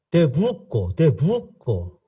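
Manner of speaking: "te busco" said as "te buco", the s left out; dropped s. Retold or imitated. A visitor mimicking the Argentine "te busco" with no s. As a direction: swallow the s in "busco". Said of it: "¿Qué es buco?".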